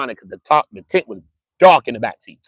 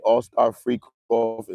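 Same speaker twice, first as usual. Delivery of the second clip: slow emphatic; 2 semitones lower, much slower than usual. Acted. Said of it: "slow emphatic phrase".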